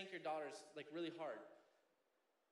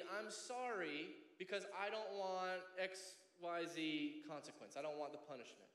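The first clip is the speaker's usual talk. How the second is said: half-hearted apology. Acted. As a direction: drag out an insincere sorry. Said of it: "saying half-heartedly".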